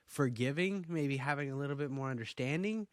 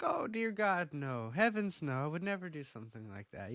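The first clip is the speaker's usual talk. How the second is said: lightly imitated gentle biker boss, pitched up then settling; mock-gentle reassurance in a higher voice; gentle gang leader; 4 semitones higher than usual. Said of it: "he sounds so gentle".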